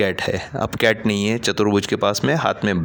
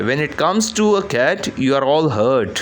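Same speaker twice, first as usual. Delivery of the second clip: raised angry voice, higher pitch; loud; 3 semitones higher, much slower than usual. Acted. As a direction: throw it at the whole family. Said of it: "ज़ोर से बोलता है".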